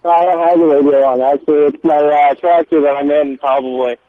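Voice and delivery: muffled, hand over the phone; talking through a covered receiver. Real, not acted. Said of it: "you sound muffled, like you got your hand over your telephone".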